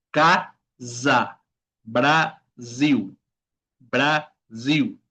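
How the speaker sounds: "casa, Brasil" syllable by syllable, S buzzed as Z; buzzing S. Shown as a demonstration. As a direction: say "casa, Brasil" in slow syllables, ca-za, bra-ziu. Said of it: "es un sonido de la abeja". ("casa, Brasil" con la S sonora como zumbido de abeja)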